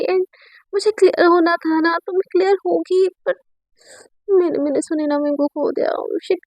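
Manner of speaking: mildly distressed, fretting to oneself; a touch of panicked regret; acted self-reproach. Student regrets her haste, alone.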